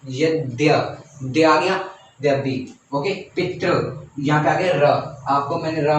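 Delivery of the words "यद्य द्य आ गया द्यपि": यद्य then द्य split off, then द्यपि to show the joined द्य; sound out the cluster. Shown as a demonstration. Teacher showing students how यद्यपि sounds, split apart. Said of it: "अगर आप ध्यान से सुनेंगे".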